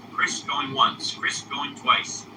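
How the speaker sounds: slow, stretched "going once, going twice" with the first "going" pitched high; drawn-out auctioneer call. Shown as a demonstration. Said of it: "Chris will try one more time".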